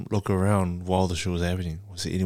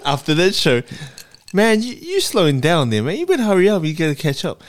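mock shout at boyfriend; 9 semitones higher, 8 dB louder than usual. Mocking her boyfriend, shouting.

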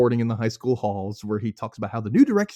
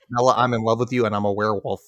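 nasal Taylor Lautner; 3 semitones lower, faster than usual. Retold or imitated. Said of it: "He goes nasal".

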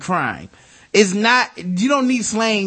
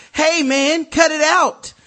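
higher, louder, friendly cop voice; mock polite cop; 8 semitones higher, 3 dB louder, slower than usual. Host imitates an unarmed London officer, mild and high. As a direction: play a gentle unarmed bobby.

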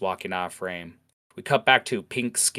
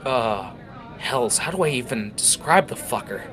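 haunted orc; 4 semitones higher, 4 dB louder than usual. Acted. Orc describes haunting beast.

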